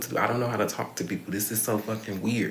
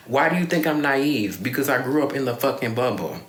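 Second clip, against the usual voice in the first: louder, heated retort; raised, exasperated voice; indignant outburst; 3 semitones higher, 4 dB louder than usual. Real, not acted. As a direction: snap back at being called naive. Angry retort to mother calling naive.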